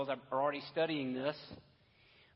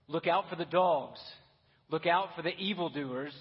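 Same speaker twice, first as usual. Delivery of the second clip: louder, pressing stern warning; 3 semitones higher, 7 dB louder than usual. Acted. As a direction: proclaim it as a stern warning to the church. Rereads warning with outline up.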